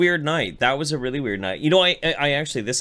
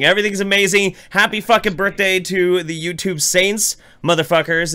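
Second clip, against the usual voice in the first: excited; 5 semitones higher, 3 dB louder than usual. Real, not acted. Loud birthday celebration.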